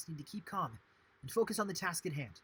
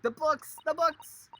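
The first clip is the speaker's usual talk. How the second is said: high, loud mock exclamation; imitated outburst, loud and high-pitched; excited outcry; 12 semitones higher, 11 dB louder, slower than usual. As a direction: cry out both words, high and loud. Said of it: "I was like".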